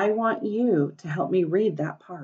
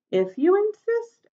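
sweetly; 13 semitones higher than usual. A narrator's reading. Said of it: "very sweetly".

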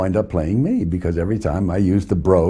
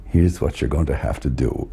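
low, quieter aside, as if taking him under an arm; confiding instruction; 5 semitones lower, 4 dB quieter than usual. Retold or imitated. Actor playfully taking his co-star aside to instruct him, low confiding tone. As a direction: lower the voice and coach him privately. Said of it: "put an arm around and say".

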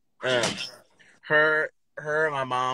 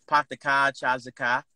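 light Boston accent, r-less "car"; 4 semitones lower, 4 dB quieter than usual. Shown as a demonstration. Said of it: "It's a little Boston accent for you".

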